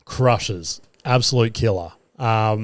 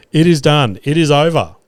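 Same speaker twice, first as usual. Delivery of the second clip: triumphant; 3 semitones higher, 5 dB louder than usual. Retold or imitated. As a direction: proclaim it like a win. Celebrating the arrest.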